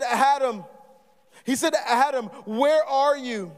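a lightly voiced God calling out for Adam. Preacher as God calling out to Adam, longing. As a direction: call out to a hiding man, drawn out.

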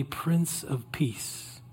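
slow, soft breath prayer; slow prayerful. Shown as a demonstration. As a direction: pray it slowly on the breath. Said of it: "we're just gonna pray silently".

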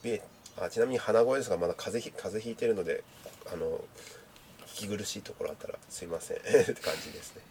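stuffy nose from a cold; nasal voice. Real, not acted. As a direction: speak through a blocked nose. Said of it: "ちなみに鼻声ですが、まだ風邪ひいてるので".

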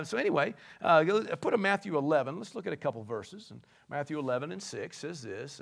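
normal talking voice

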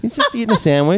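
high-pitched insistence; emphatic insistence. Real, not acted. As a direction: stress JUST, defending him. Arguing about photo.

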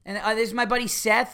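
high, gushing mock introductions; drunk brunette. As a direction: imitate a tipsy woman presenting her friends. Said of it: "the brunette was one of these".

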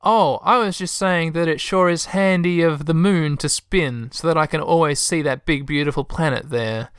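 Texan lady covering a slip; Texan accent. Acted. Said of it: "Crystal looks alarmed".

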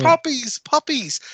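high-pitched mock leer, almost endearing; leering old man. Old wrestling commentator ogling a wrestler, endearingly leering. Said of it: "leering old man, but almost kind of endearing".

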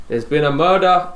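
slow Scottish attempt drifting towards Indian; badly faked Scottish, slow; botched Scottish accent. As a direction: try Scottish and slide into Indian. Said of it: "I think I've gone Indian".

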